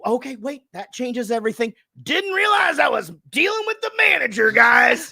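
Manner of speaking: high, loud fake-impressed yell; mock her title with a big shout; sarcastic mock shout. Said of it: "And I go".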